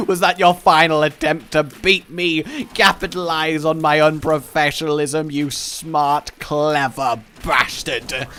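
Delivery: loud, theatrical challenge slowing to the insult; mock-dramatic accusation. Hero confronting Blue Baby's sabotage, mock-dramatic. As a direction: accuse a rival grandly, drawing out the last words.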